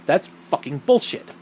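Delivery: FUCKING BULLSHIT stressed for emphasis; emphasis on swearing. Shown as a demonstration. Host showing why they swear, emphatic FUCKING BULLSHIT. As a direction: lean on the words FUCKING BULLSHIT. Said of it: "I emphasize the word".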